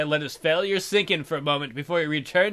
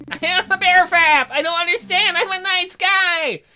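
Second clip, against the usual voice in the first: despairing wail; 7 dB louder than usual. Acted. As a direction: howl it as a self-pitying bear. Bear wails in despair.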